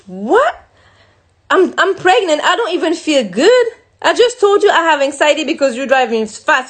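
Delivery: retelling a disbelieving objection, voice lifted; incredulous protest. Retold or imitated. Pregnant passenger objecting to partner's order to drive, incredulous protest.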